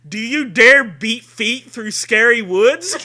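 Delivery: loud, high, laughing through it; can't keep it together; laughing read. Real, not acted. Host reads the blurb through real laughter.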